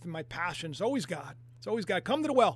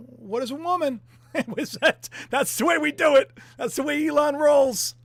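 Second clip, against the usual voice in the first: mock swagger; 5 semitones higher, 7 dB louder than usual. Mocking Elon's swagger.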